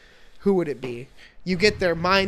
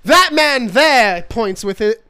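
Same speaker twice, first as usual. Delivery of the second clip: Southern lawyer drawl; 5 semitones higher, 8 dB louder, slower than usual. Pretend. Southern lawyer bit continues.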